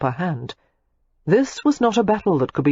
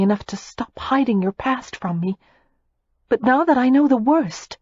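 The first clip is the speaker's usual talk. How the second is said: put-on higher, teasing young lady; a hint of a playful heiress; lightly voiced young woman; 6 semitones higher than usual. A narrator's reading. Daisy teasing Matthew about his past, lightly higher.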